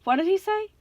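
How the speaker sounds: high, mildly groaned question; half-asleep groan. A narrator's reading. Tyson woken by the intercom, half-asleep groan. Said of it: "Tyson groaned, still half asleep".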